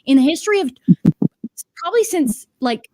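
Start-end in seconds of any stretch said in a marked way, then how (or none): 0.0-0.7 breathy dramatic whisper. Acted. Whispering a mock aside to the listener. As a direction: hush it like a secret. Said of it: "unvoiced whisper".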